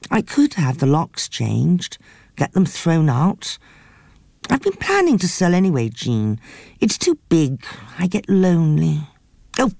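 lightly voiced dramatic woman; a touch of theatrical lament; Frida's voice. Frida speaking.

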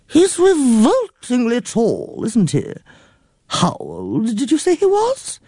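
put-on high, fussy old lady near tears; a fretful elderly aunt complaining breathlessly; flustered old aunt. A narrator's reading.

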